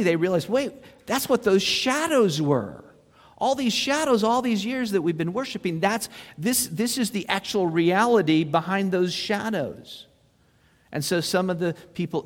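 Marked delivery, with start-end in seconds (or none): 0.5-10.1 amazed realization. Retold or imitated. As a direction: voice rising in amazement. People realizing truth in parable.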